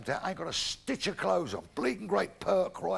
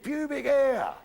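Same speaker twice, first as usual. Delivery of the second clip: louder, higher, with HAIR drawn out and falling; emphatic repeat; 9 semitones higher, 6 dB louder, slower than usual. Acted. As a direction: belt the answer out for a disbelieving teacher. Repeats it after teacher's disbelief.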